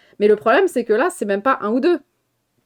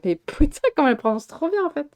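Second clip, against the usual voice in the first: higher, amazed retold reaction; retold shock; 6 semitones higher than usual. Telling friends of shock at an actress's French, amazed. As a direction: recall being mildly stunned, pitch lifted. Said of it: "j'étais choquée à chaque fois".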